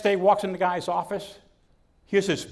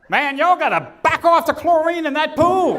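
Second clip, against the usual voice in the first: hick voice; 9 semitones higher, 7 dB louder, slower than usual. Acted. Joke punchline, customer complaint.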